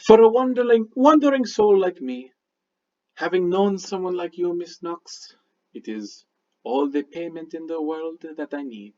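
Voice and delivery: measured, formal mystic with a lilting pitch; courteous stranger paying a compliment; lightly voiced Midnight. Midnight praising Mister Kolbavar for his work, lightly acted mystic.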